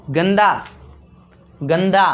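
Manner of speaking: गंदा with the न sounded clearly through the nose; teacher stressing the nasal in गंदा; nasal demo. Shown as a demonstration. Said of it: "आवाज़ कहाँ से आ रही है? नाक से।". (गंदा में नाक से न की आवाज़)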